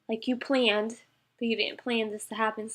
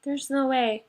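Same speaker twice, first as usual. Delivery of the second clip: insistent refusal; 5 semitones higher, 6 dB louder than usual. Retold or imitated. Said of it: "I'm like".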